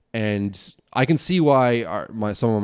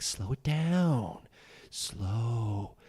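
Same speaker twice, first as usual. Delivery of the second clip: slow it down; 8 dB quieter, much slower than usual. Retold or imitated. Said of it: "People are like".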